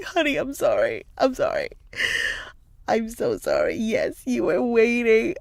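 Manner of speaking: re-enacted tender mother's apology; soothing apology. Mother apologizing to her crying son, soothing. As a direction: placate an upset child.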